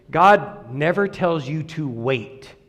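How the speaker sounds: slow, deliberate statement; emphatic. Real, not acted. Preacher correcting the church about waiting, slow and emphatic. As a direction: spell it out slowly and firmly. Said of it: "I'm gonna say that emphatically".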